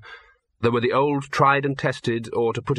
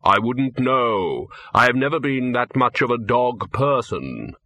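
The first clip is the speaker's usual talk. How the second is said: Death, slow and grave. Acted. Death voiced slowly.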